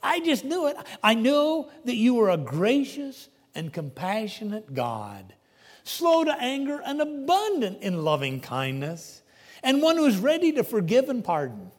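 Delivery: a touch of sulky complaint; mild complaining. Retold or imitated. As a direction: grumble it like a reluctant prophet. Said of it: "he presents it to God as a complaint".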